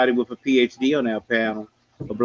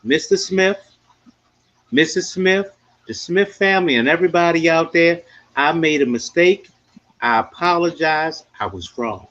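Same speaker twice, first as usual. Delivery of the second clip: sincere apology. Pretend. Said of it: "I'm gonna show you what a man does".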